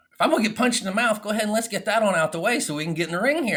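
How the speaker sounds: pumped up. Real, not acted. Fired-up about taking failure head-on.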